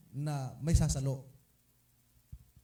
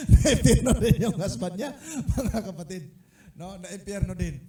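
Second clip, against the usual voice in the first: laughing; 3 semitones higher, 6 dB louder than usual. Real, not acted. Laughing through the punchline.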